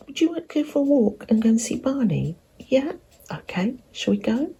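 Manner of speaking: high, fast coaxing voice; talking to a dog. Real, not acted. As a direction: coax the dog into a walk.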